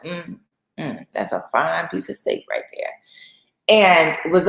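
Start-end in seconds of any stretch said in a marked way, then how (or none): 0.0-2.9 admiring aside. Acted. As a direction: say it under the breath, savoring the sight. Potiphar's wife eyeing Joseph.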